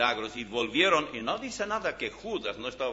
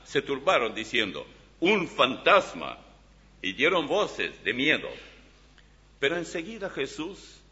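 scripture reading. Acted. Reads Matthew aloud from Bible.

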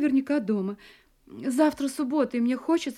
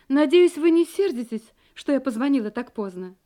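overly bright; 4 dB louder than usual. Acted. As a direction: put on sugary charm. Apologetic bright phone voice.

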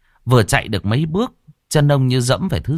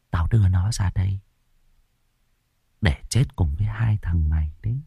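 stern, strange voice; 4 dB quieter than usual. Acted. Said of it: "giọng nói nghiêm nghị, tựa như của người khác".

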